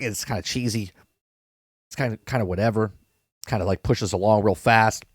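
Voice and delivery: low, quiet, dismissive shrug; underwhelmed, voice dropped down; unimpressed. Retold or imitated. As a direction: recount a lukewarm reaction, soft and low. Acts out an unimpressed reaction.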